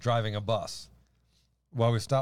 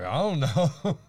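laughing reply; 4 semitones higher, 3 dB louder, slower than usual. Retold or imitated. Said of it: "He's like".

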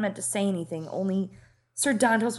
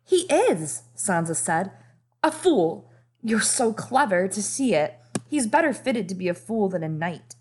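eager flattery. Acted. Sansa flatters the king.

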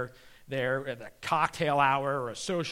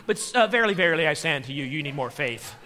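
a hint of solemn scripture Jesus; 5 dB louder than usual. Jesus in King James tone.

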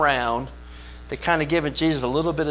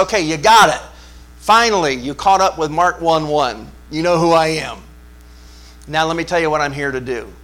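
excited announcing; 4 dB louder than usual. Acted. Jesus voiced to disciples.

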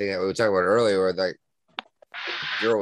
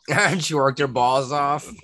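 laughing through the words; higher, slow, laughing repeat; amused; 4 semitones higher than usual. Real, not acted. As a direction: savor the joke through a laugh. Cracking up at own pun.

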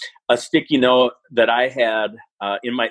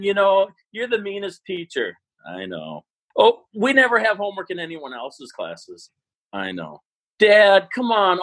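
brain dead dialogue; 7 semitones higher than usual. Shown as a demonstration. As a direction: alternate kid whining with calm deadpan I know. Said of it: "my other sticky note was".

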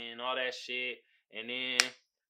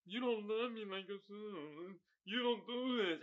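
imitating an accusing wife; 4 semitones higher, 8 dB quieter than usual. Retelling Love's accusation in show.

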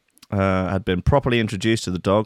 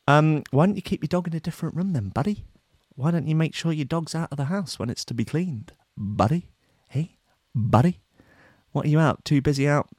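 higher, mocking buddy tone; sarcastic taunt; 6 semitones higher than usual. Host taunting the pastor with a sarcastic buddy. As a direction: needle him with mock friendliness.

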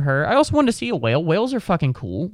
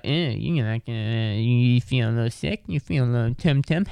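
cocky teasing; 2 semitones lower than usual. Retold or imitated. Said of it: "she goes in all cocky and shit".

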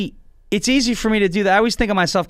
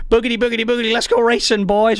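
higher Southern race-caller's cry; Darrell Waltrip; 4 semitones higher than usual. Acted. Commentator starting the NASCAR race, rousing Southern catchphrase. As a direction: send them off like a NASCAR commentator. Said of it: "where Darrell Waltrip is saying".

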